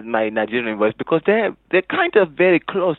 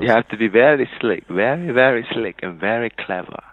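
put-on voice with a Nigerian lilt; mock Nigerian-sounding accent; Nigerian-type accent; 3 semitones lower than usual. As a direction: imitate an accent, sliding into Nigerian. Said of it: "that sounds like a Nigerian type voice".

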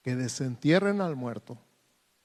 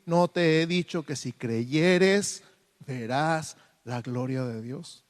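paciente; slower than usual. Retold or imitated. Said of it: "con toda la paciencia del mundo".

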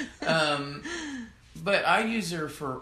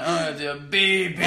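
mock German; 5 dB louder than usual. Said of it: "imagine her reading it and going".

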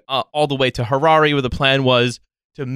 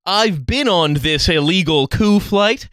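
indignant passenger; 4 semitones higher than usual. Retold or imitated. Indignant Afrikaner passenger quoted.

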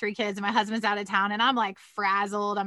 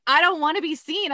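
put-on whiny bratty child, a bit higher; bratty kid; 5 semitones higher, 3 dB louder than usual. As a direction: pout it like a sulky little kid. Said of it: "like a little bratty kid myself".

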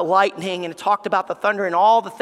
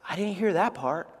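a hint of a sheepish husband, much softer; husband's excuse; 3 semitones lower, 8 dB quieter than usual. Husband answering his scolding wife, meekly making an excuse. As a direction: offer a small, quiet excuse. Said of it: "And we naturally always say".

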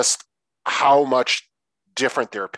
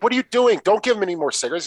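playful scolding; 10 semitones higher, faster than usual. Retold or imitated. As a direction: scold him half in fun. Voicing Billi scolding the uncle.

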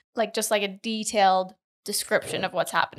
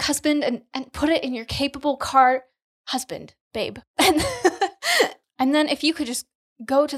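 higher, hammed-up prayer voice breaking into laughs; best prayer voice; 3 semitones higher than usual. Asking her husband for milk in a giggly mock prayer voice. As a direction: overdo the reverent thanks, giggling through it. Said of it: "Do it in your best prayer voice".

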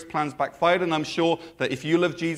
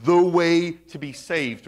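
sarcastic. Shown as a demonstration. Demon girl mocking Paul, sarcastic. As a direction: sneer it as if you don't mean it. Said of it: "speaking in a really sarcastic way".

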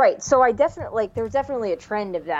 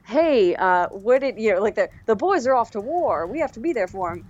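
1940s lady voice; 3 semitones higher than usual. Retold or imitated. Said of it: "they're like".

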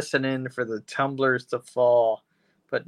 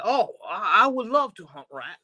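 put-on higher-pitched British accent slipping into French; botched British, sounding French; 6 semitones higher than usual. Safecracker accepting owl powers, botched French-sounding British accent. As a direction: attempt British and land on French. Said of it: "that's French".

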